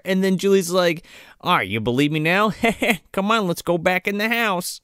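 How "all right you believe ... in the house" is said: unbothered, everyday delivery; nonchalant. Retold or imitated. Imitating Julie after the car sinks, nonchalant. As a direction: toss it off as if nothing happened. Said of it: "Like, nothing".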